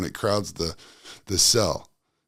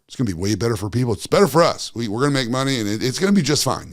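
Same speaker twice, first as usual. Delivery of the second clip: mock corporate pitch; 2 semitones higher, 3 dB louder than usual. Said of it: "these different companies are like".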